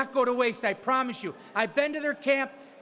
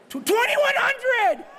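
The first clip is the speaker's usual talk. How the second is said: higher, louder, slower shout of the bid; excited bid shout; 11 semitones higher, 3 dB louder, slower than usual. Real, not acted. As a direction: announce it thrilled, drawing it out. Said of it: "I'm getting excited".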